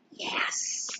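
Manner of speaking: breathy unvoiced yes to herself; whispered yes. Real, not acted. Celebrating her weight loss, whispered triumph. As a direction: hiss a private yes.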